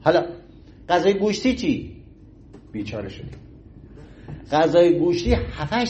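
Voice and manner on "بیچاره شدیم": mock despair. Mock despair about meat digestion.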